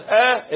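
آ sounded alone, starting from the throat; hamza from throat. Shown as a demonstration. Teacher breaks down a word for students, hamza from throat. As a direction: isolate the آ with a clean glottal onset. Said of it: "الهمزة من الحلق".

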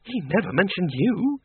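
a knowing, teasing jab; arch. A narrator's reading. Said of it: "said Miss Flitworth archly".

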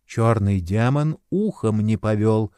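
usual speaking voice

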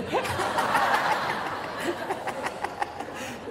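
airy unvoiced laugh after the joke; breathy laugh. Real, not acted. Preacher laughs at his own joke, breathy and soundless. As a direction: let a silent breathy laugh escape.

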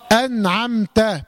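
slow أنعمت as "an-am-ta", nun and mim closed; clean still letters. Shown as a demonstration. Teacher models correct sukun, closed nun and mim in أنعمت. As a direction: give أنعمت no vowel after nun or mim. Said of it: "بالسكون هكذا".

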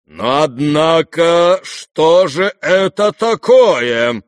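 loud, slow, menacing outburst; stern exclamation. A narrator's reading. Old general confronting Rogozhin, stern outburst. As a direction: demand it like an angry old man. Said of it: "грозно и внезапно воскликнул".

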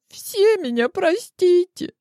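put-on a teen sobbing sorry to everyone; high, slow tearful wail; weeping girl. A narrator's reading. Weeping daughter apologizes.

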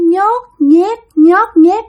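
high squelchy sound effect; imitated squelching. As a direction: mimic something wet creeping along. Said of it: "nó cứ phát ra cái tiếng". (bắt chước tiếng nhót nhép)

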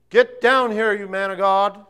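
loud, high shouting up a hill; soldiers' shout. Acted. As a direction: bark an order up the mountain. Second captain shouting.

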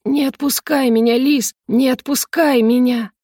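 high pleading cry, slowing at the end; desperate plea. Acted. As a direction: beg him not to let go. Trapped companion begging her stay.

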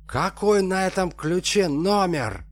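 loud, high demanding yell; shouting. Acted. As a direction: yell the question at him. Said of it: "заорал Алексей".

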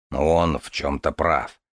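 slow, grunting with effort; кряхтя. Acted. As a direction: strain out the words, grunting. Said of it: "кряхтя сказал Аристарх". (с кряхтением, медленно)

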